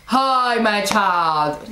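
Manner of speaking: mock sweet voice of God; drawn-out, hammed-up divine greeting; imagined friendly God. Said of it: "you guys are expecting God to say".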